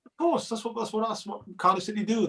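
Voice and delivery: high-pitched, knowing fan's complaint; mock exasperation. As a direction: act out an exasperated fan seeing the inevitable. Acting out resigned fans' exasperation.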